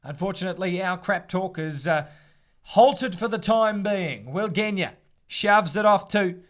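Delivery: steady live match commentary; live rugby commentary read; rugby play-by-play. Acted. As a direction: call the rugby as it happens.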